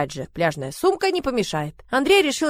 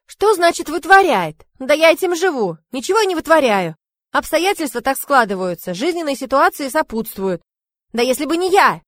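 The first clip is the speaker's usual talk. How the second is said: offended rant; 6 semitones higher, 4 dB louder than usual. A narrator's reading. Zina's offended rant at mother.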